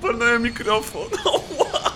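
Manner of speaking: high pained yelps; pained cries. Real, not acted. Streamer after hitting the microphone, pained yelps. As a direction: yelp from a hit hand.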